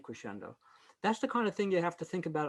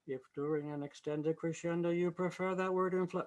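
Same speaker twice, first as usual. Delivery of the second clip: rising in pitch; 2 semitones higher than usual. Shown as a demonstration. Choir director catching himself rising in pitch, a faulty take. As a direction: pitch creeping up as it goes. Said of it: "well, I'm rising in pitch. I shouldn't do that".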